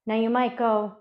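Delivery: ordinary delivery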